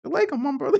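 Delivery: an easygoing mock salaam to a brother; laid-back mock greeting. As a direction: play it relaxed, no trouble intended. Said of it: "I'ma chill".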